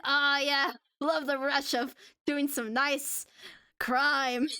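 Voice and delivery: slow, savouring chill-dude voice; laid-back chill guy. Acted. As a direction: relish it lazily, with pauses. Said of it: "It's just the laid-back, chill energy".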